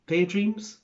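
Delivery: high, rising and unsure; guessing the name aloud, rising high at the end; unsure question. Real, not acted. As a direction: ask it like you doubt the name. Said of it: "I think".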